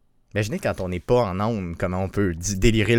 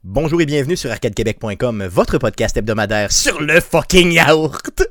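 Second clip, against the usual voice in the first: radio host intro; 4 dB louder than usual. Shown as a demonstration. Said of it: "Ça marche pas".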